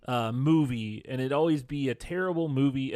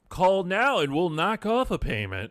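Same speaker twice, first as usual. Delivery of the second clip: infomercial voice; 5 semitones higher, 3 dB louder than usual. Pretend. Infomercial pitch voice.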